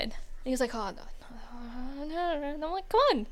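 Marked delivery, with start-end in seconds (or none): 0.7-2.5 drawn-out, reluctant no; slow, squirming mock refusal. Acting out Adam's reluctant refusal. 2.9-3.3 high-pitched, insistent coaxing; playful retold cajoling. Retelling how they coaxed Adam.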